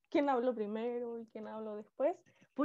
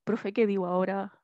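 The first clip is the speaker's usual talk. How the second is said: demonstrating an attempt at a deeper voice; imitating student's tone; 4 semitones lower than usual. Shown as a demonstration. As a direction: try matching a student's lower tone. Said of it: "intenté hacer el mismo tono".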